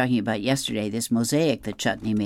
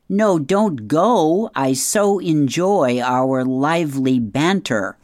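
sarcastic call after; 3 semitones higher, 6 dB louder, slower than usual. Acted. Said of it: "Peter yells after him".

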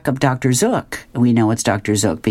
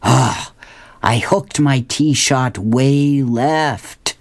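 Dr Zook; much slower than usual. Acted. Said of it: "and he says".

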